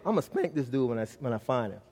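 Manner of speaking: low, quiet grumble to himself; inner thought. Retold or imitated. Father planning to spank his runaway boy, privately thinking. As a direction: drop low and soft, as if thinking aloud. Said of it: "I'm thinking".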